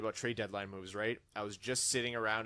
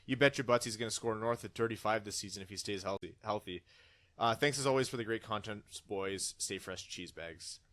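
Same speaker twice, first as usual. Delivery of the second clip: mild put-on Canadian accent; lightly voiced Canadian hockey fan. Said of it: "the whole thing is Canadian".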